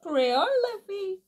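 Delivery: playful Réunion Creole accent showing. Real, not acted. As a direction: let the Réunion Creole accent slip through. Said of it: "C'est là qu'on entend mon accent créole".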